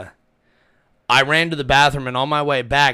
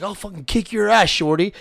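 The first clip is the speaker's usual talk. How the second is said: mock yell, pitched up; retold drunken threat; 6 semitones higher than usual. Drunk at a concert threatening the storyteller, mock yelling. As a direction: imitate an angry drunk without full volume. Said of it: "he starts yelling at me, cussing and screaming".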